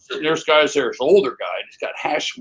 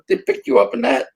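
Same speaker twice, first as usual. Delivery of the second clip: amazed disbelief; 8 semitones higher than usual. Retold or imitated. Neighbors amazed at limo.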